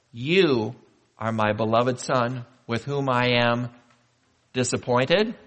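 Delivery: slow, spaced words with a loud mock-angry "angry" before "well pleased"; playful false start of the divine blessing; joking misquote. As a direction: tease the crowd with the wrong words, then land on "well pleased".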